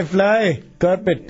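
put-on Indian accent bit. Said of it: "annoyed with you and your accent".

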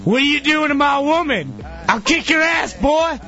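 high, shouted mock redneck threat; hammed-up confrontational redneck yell; angry redneck. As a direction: imitate a redneck picking a bar fight. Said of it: "This big fat redneck dude runs over and goes".

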